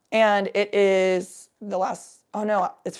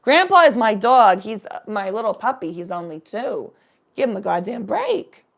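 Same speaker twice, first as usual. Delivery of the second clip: 1 retold outburst; 6 dB louder than usual. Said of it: "I said".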